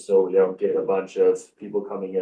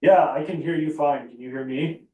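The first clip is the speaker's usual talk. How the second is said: far from mic; 6 semitones higher than usual. Real, not acted. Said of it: "you're a little far away".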